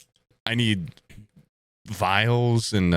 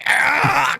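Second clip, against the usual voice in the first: high, loud vocal sound effect; imitated switch noise; 5 dB louder than usual. Miming a big switch to a friend, high imitated noise. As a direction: voice the clunk of a giant switch.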